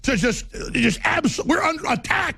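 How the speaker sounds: high, shouted rant at full force; furious shout. Real, not acted. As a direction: scream it out like a preacher. Ranting about zombies, shouting.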